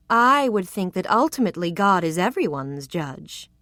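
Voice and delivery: a slow, deliberate reply; a man choosing his words carefully. Acted. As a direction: weigh each word. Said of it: "he said slowly".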